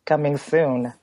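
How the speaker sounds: rusty morning announcer sign-off. Real, not acted. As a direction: voice still rough from sleep. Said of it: "I'm really taking advantage of this morning voice".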